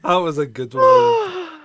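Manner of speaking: high, loud, slow, breaking with laughter; laughing till tearful. Real, not acted. Host after the funny clip, laughing through tears.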